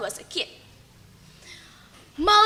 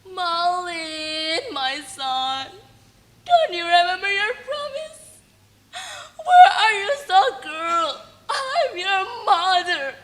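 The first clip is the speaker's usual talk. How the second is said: begged sadly; 4 semitones higher than usual. Acted. Rejected mother begging her son to remember, tearful. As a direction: plead with him, voice wavering. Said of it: "Malin's mother begged sadly".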